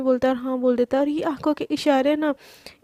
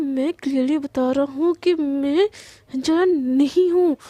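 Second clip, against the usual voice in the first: angry denial; slower than usual. Retold or imitated. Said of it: "Krishna की इतना ज़्यादा गुस्सा".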